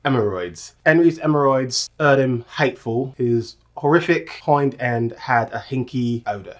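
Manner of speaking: attempted Cockney with dropped H's; amateur Cockney read-aloud; Cockney accent. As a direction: try the tongue-twister in Cockney. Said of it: "in your Cockney accent".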